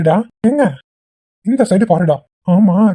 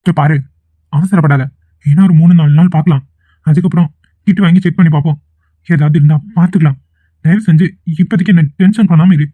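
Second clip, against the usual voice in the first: irritated pushback; 4 dB louder than usual. Acted. Boyfriend irritated, pushes back.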